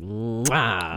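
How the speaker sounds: long, slow drawn-out "mwah"; imitated kiss noise. Co-host recalls a comedian's bit, drawn-out kiss noise. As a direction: stretch out a comic smooch. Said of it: "Louis C K's bit".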